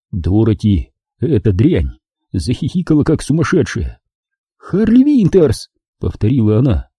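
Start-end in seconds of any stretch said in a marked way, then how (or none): 4.6-5.7 high, slow and patronising; condescending. Acted. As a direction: spell it out to a slow child. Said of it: "словно имела дело с умственно отсталым ребёнком".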